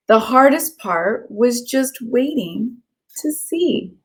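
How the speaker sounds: lilting storybook read-aloud; gentle sing-song story narration for kids; reading to children. Acted. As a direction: read it like a bedtime picture book. Reads picture book aloud.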